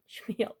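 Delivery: Schlemiel said softly as shmeel, stress on the end. Shown as a demonstration. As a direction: softly sound out Schlemiel as shuh-MEEL. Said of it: "I can say these words".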